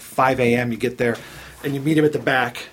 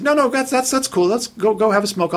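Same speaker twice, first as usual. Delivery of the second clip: fake easygoing; 6 semitones higher than usual. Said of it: "But I said".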